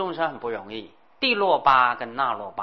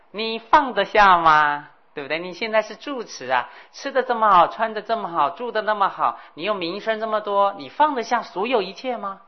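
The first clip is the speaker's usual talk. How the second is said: put-on challenging old hag; 6 semitones higher, 5 dB louder than usual.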